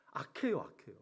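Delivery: near-whispered verdict; soft whispered aside to the congregation; hushed aside. Real, not acted. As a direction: drop right down, almost voiceless. Hushed aside about the enemies.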